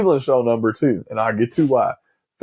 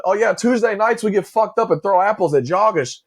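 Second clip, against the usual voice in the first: imitating movie character; 7 semitones higher than usual. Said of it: "they're like".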